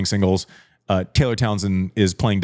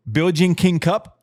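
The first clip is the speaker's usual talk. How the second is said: excited; 7 semitones higher than usual. Real, not acted. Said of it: "I'm excited".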